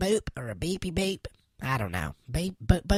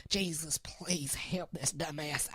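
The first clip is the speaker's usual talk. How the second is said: whispered prayer; 5 dB quieter, slower than usual. Acted. Muttered prayer while mad at Trent.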